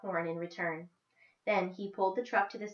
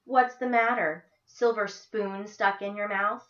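slow, louder, sneering taunt; smart and biting; 2 semitones higher, 6 dB louder, slower than usual. Acted. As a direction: bite every word of the jab. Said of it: "Her voice was smart and biting".

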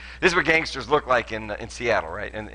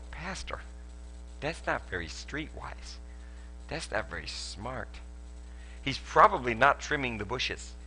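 slow, hushed imitation of a concerned listener; mock gentle caution; 10 dB quieter, slower than usual. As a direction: softly warn him, drawing the words out. Voices a cautioning church member.

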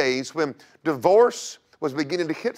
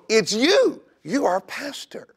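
higher, louder, joyful insistence; excited reveal; 7 semitones higher, 3 dB louder than usual. Retold or imitated. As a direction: tell her gladly it's her. Elders tell her she's pastor.

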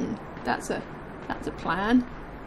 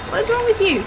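loud fed-up shout at him; exasperated shout; 7 semitones higher, 4 dB louder, faster than usual. Real, not acted. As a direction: yell it in disbelief. Yelling at Larry.

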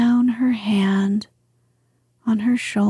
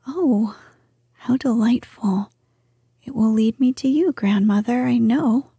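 put-on lightly raised young princess voice; cartoon princess; 2 semitones higher, faster than usual. Irene speaks to grandmother.

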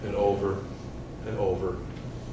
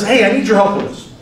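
grandpa asking; 7 semitones higher, 4 dB louder than usual. Retold or imitated.

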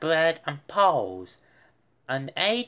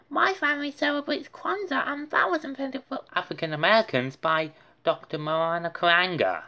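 high, fast factual; the Brain explaining; 5 semitones higher, much faster than usual. Acted. The Brain explaining Kwanzaa to Buster. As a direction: rattle off the facts.

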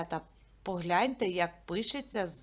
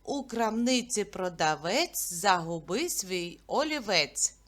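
tongue twister recital; 2 semitones lower than usual. Shown as a demonstration. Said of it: "давайте повторимо скоромовку".

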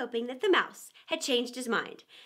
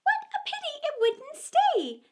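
sighing; 3 dB louder than usual. Acted. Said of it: "sighed the lory".

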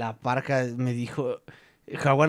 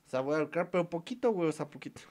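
quiet aside; 10 dB quieter than usual. Real, not acted. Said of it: "pleads to rights holder quietly".

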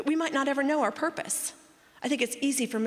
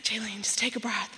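calming whisper. Retold or imitated. Husband calming his excited wife, whispered. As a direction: hush her gently. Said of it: "And he's like".

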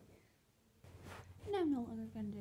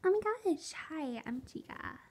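imitating Chica; 3 semitones higher than usual. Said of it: "That was always a Chica".

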